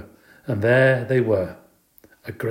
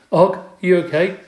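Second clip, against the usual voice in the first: higher, louder concerned call; 8 semitones higher, 6 dB louder than usual. A narrator's reading. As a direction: call out to check on a friend. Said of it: "I called out".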